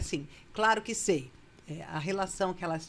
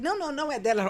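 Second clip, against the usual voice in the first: husband protesting; 5 semitones higher, much faster than usual. Retold or imitated. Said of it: "o Sartori fala assim".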